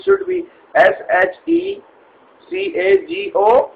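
spelling it out high and puzzled; high, unsure letter by letter; confused spelling. Acted. Agent checks the spelling with the caller, high and puzzled.

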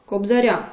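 "кобзаря" with a softened "р"; soft r. Shown as a demonstration. Teacher gives a soft-group example, soft r. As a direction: palatal "ря" ending in "кобзаря". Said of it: "це м'яка група".

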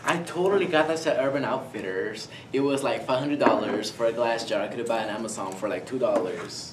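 chatty mock valley girl. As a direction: gossip about shopping like a basic girl. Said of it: "valley girl, yeah".

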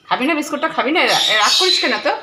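high sing-song coaxing of a sulky pet. Real, not acted. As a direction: sweet-talk the animal into eating, voice up high. (পোষা প্রাণীকে উঁচু গলায় আদুরে সাধাসাধি)

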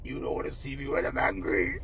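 breathy whisper of the warning; whispered mock threat. Vlogger whispering a singer's warning. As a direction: whisper it like a secret menace. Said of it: "quoting a singer again".

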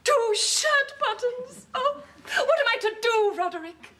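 high, wailing grief over two buttons, half laughing through tears; tearful lament. Acted. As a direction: mourn a lost husband with theatrical sobs. Widow weeps over buttons.

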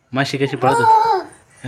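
drawn out through laughter; slow, laughing. Real, not acted. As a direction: ask it slowly while laughing. Father repeats, amused.

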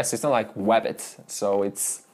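normal talking voice

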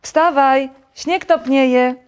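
high, loud wake-up shout. A narrator's reading. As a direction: urge the sleeper up at full voice. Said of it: "krzyczał Żabek".

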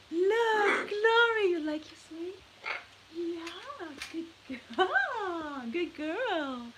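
high, sing-song praise for a pet. Real, not acted. Owner praising her parrot on its new swing, high cooing baby talk. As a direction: coo at the parrot like a proud owner.

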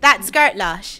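very slow Bristolian "girt lash"; Bristolian accent. Shown as a demonstration. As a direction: teach the phrase in Bristolian twang, stretched out. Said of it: "So, so we say".

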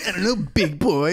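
a hint of a teasing romance voice; mock sultry reply. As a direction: purr it like a hammed-up seductress. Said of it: "You're like the hot narrator".

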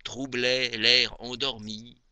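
measured poetry reading with long pauses between phrases; poem recitation. Acted. Reciting Maupassant's moonlit poem to dear Aimée, poem recitation. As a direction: recite each verse phrase by phrase, expressively.

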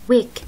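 ويك with a long schwa, r silent; work without r. Shown as a demonstration. Teacher showing dictionary work, r silent. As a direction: say ويك with no r at all. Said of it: "بتلاقيها بالقاموس هيك".

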